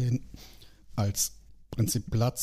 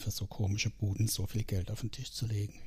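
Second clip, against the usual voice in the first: breathy, hushed whisper of disbelief; whispered incredulous aside; 6 dB quieter than usual. Real, not acted. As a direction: drop to a whisper as if sharing a secret. Baffled aside about dotcom investors.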